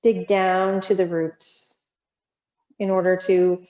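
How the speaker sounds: measured reading with long pauses between lines; reflective prose reading. Real, not acted. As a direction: let each line settle before the next. Reads prose aloud to class.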